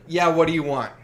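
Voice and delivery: mock-brusque counter greeting; brusque attitude. Sandwich maker to a late customer, mildly brusque. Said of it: "I was probably talking Jersey".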